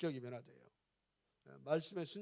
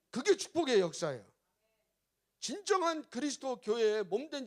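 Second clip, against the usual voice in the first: louder, raised sermon delivery; fervent preaching; 4 semitones higher, 6 dB louder than usual. Real, not acted. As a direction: preach it with rising force to the congregation. Preaches at full force.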